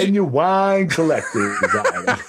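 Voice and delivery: Southern drawl through laughter; laughing Southern drawl. Retold or imitated. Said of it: "this Southern drawl".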